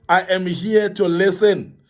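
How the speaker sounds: calm, caring offer; gentle reassurance. Shown as a demonstration. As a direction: say it slowly and kindly to someone struggling. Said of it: "phrase that we need to be saying".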